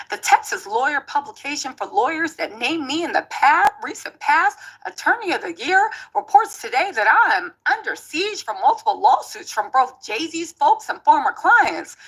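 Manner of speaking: lightly put-on Southern accent, reading a lawyer's statement; a hint of a Texas lawyer's Southern accent; Tony Busby accent. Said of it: "my Tony Busby accent is impeccable".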